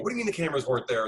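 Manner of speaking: rapid-fire mock disbelief; mock baffled New York caller; fast incredulous. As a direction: rush it, baffled exec. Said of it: "call back the next day and go".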